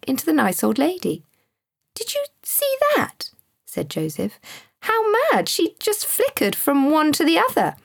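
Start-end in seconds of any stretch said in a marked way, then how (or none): 1.9-3.3 put-on high-pitched, astonished boy's question; excited child, voice leaping right up; amazed boy. A narrator's reading. Boy amazed by sudden transformation. 4.8-7.8 put-on high, excited boy's exclamation; astonished child marvelling, pitched well up; amazed boy. A narrator's reading. Boy amazed by sudden transformation.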